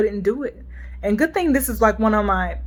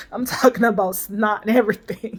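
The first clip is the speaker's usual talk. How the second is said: teary laugh. Real, not acted. Recalling crying fit, voice cracks.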